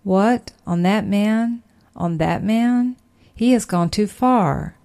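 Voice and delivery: the devil scoffing, slow and incredulous, in the preacher's own voice; mocking devil. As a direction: drawl out the disbelief like a sneering devil. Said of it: "The devil may say".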